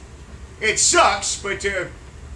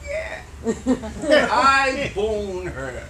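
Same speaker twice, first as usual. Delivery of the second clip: laughing; much slower than usual. Acted. Old man muses, laughing.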